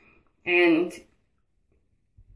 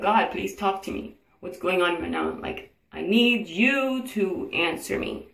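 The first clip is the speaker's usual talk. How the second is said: slow, drawn-out retold plea to God; angry pleading; slower than usual. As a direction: plead for an answer with restrained, re-enacted anger. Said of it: "I was so angry".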